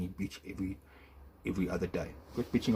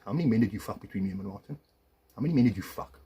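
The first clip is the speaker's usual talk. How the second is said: louder, pressing accusation; angry demand; 5 dB louder than usual. Real, not acted. Husband confronting his ex-wife, furious demand. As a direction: hammer the question at her.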